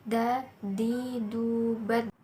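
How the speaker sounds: "Da, di, du, bad" with tongue tip on the upper gum, final d bouncing. Shown as a demonstration. Teacher giving examples of the letter Da, bouncing final d. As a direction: let the d closing "bad" rebound. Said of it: "huruf Da terdengar suaranya memantul".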